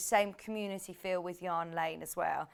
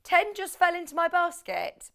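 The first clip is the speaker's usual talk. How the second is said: speaking through a full face dive mask; words muffled behind a face mask; 8 semitones higher, 5 dB louder than usual. Real, not acted. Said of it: "Talking through the mask and it's all muffly".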